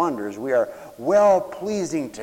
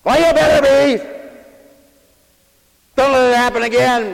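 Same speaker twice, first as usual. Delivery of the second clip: higher, louder scolding; stern parent; 10 semitones higher, 11 dB louder than usual. Retold or imitated. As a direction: scold the child half-sternly. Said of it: "Oh, you might say".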